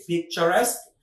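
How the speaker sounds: "পিকচারেস্ক" with "-esk" and a lifted end; correct pronunciation. Shown as a demonstration. Teacher showing learners the right form, careful "পিকচারেস্ক" ending in "-esk". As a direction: model "পিকচারেস্ক" as pik-cha-resk. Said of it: "উচ্চারণটা হচ্ছে".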